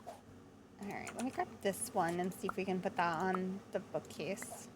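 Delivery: slightly croaky, rough throat. Real, not acted. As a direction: talk through a frog in the throat. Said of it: "sorry if my voice is a little, like, croaky".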